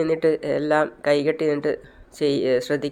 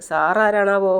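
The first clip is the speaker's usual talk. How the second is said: higher, mock-respectful question; 4 semitones higher, slower than usual. Ragger asks the stranger who he is, mocking. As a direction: tease him with false deference. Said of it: "അവർ കളിയാക്കി ചിരിക്കുകയാണ്".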